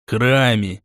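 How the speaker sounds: "храме" set apart for emphasis; single out the word "храме"; stress on храме. A narrator's reading. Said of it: "он специально выделил это слово".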